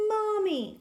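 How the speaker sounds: high, bright call of joy; happy cry. Acted. Duckling calling happily to her mother. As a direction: call out gladly to a found mother. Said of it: "quacked the little duckling happily".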